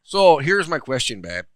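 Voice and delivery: loud, slow Michigan-ish put-on accent; mock Michigan accent. Host setting up his question, in a mock Michigan accent. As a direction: stretch it out in a dubious Michigan accent. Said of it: "Stop talking like that".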